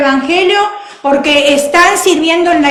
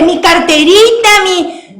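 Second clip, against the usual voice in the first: mock humble voice; 3 semitones higher, 4 dB louder than usual. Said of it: "No hable".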